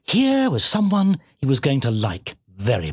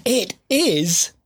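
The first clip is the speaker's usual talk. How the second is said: high, gently delighted piglet; happy; 8 semitones higher than usual. A narrator's reading. Piglet delighted by the morning walk, happily. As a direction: agree brightly in a higher pitch. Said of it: "said Saddlebottom happily".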